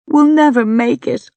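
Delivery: high, loud wail of despair; despairing sob. A narrator's reading. Exhausted climber to companion halfway up the cliff, sobbing. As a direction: cry it out as strength gives way. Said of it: "I sob".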